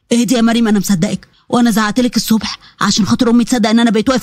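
calm her down gently; a hint of a tender husband; reassuring husband. Ahmed reassuring his wife.

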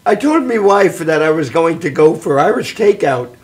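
stage Irish joke-telling; Irish accent. Acted. Leprechaun tells a joke about his wife, in Irish accent. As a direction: tell the gag in an Irish lilt. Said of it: "I can do an Irish voice".

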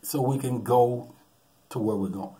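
slow, soothing reassurance; calming. Retold or imitated. Buddy to the panicking nephew, slow and soothing. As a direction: talk him down slowly. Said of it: "It's like".

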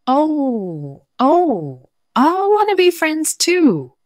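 high, slow, moaning ghost voice; unearthly voice. Pretend. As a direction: wail it like a spooky ghost. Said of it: "the ghost said".

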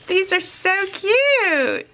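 a high, slow giggle through the words; giggling. Real, not acted. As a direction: laugh your way through it. Giggling over cute tags.

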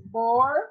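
"borboleta" broken up as bor, bo, le, ta; dictated in syllables. Shown as a demonstration. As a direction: spell out "borboleta" syllable by syllable while writing. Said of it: "Vou escrever aqui".

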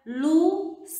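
"Luciana" broken into four separate syllables; "Luciana" sounded out piece by piece for counting; split into syllables. Shown as a demonstration. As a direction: say "Luciana" syllable by syllable with short pauses. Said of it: "Quantas sílabas possui a palavra".

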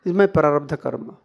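low, settled acceptance; calm acceptance. Acted. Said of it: "how he speaks".

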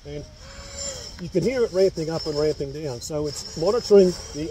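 muffled behind respirator; speaking inside breathing mask; through a face mask. Real, not acted. Seen 0: Clear half mask over his nose and mouth throughout.

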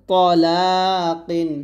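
তলাকিন with heavy rounded t, long লা; thick to. Shown as a demonstration. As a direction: fatten the first syllable of তলাকিন, very slowly. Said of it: "ত মোটা করে".

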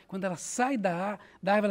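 ordinary talk, nothing marked

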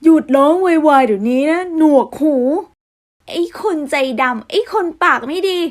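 irritated brother yelling at a noisy cat; angry yell. Acted. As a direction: snap at the screeching cat to shut up.

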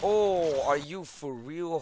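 loud, high, drawn-out "oh"; shocked outcry. Real, not acted. Gamer can't believe it's real, shocked outcry. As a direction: cry out in sudden disbelief. Disbelief during a game fight.

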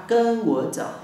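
mock call. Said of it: "Đi theo cô".

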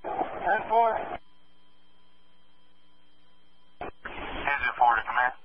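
muffled radio call through a mask; firefighter shouting through mask. Real, not acted. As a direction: shout into the radio from inside the fire. Fire crew radioing from inside.

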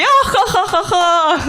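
slow, loud mock laugh; fake guffaw. Dog owner forcing a slow, loud mock laugh. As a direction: spell out a hammy ha-ha-ha. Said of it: "І він такий".

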